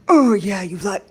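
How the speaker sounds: loud put-on moaning start; attempted celebrity-style sultry voice; botched character impression; Jennifer Coolidge. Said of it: "are you Jennifer Coolidging?".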